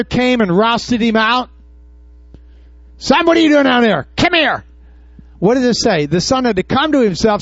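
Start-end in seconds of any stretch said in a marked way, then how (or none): 3.0-4.6 higher-pitched mock father's call; lightly voiced father summoning his son. Father imagined rousting out his son.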